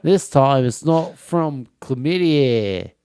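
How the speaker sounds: broad mock Australian; Australian accent. Australian finishing the koala joke, Australian accent. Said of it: "that's exactly how they say chlamydia".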